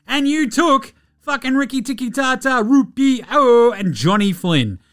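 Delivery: high, loud outraged rant; ranting shout. Real, not acted. Host ranting at David Kahn for passing on Curry, loud outraged rant. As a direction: let the outrage spill over.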